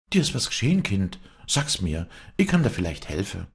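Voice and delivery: lightly voiced high, coaxing old woman; worried old nurse. Old nurse offers the girl help, coaxing.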